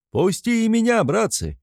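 high eager call; eager shout. A narrator's reading. A greedy lad begs Mikolka to ride, high shout. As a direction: beg to join in. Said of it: "кричит один разлакомившийся парень".

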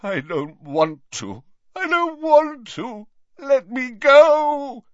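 high, slow, anguished begging; beg, rising into a wail. Acted. Dumbledore begging under the potion.

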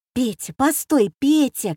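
высоко и громко окликнуть брата; сестра вдруг кричит брату; окрик сестры. Acted. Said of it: "крикнула вдруг сестра". (громкий высокий окрик)

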